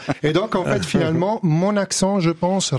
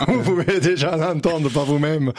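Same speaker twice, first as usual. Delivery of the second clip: amused, laughing. Real, not acted. Jokes about his own accent, laughter.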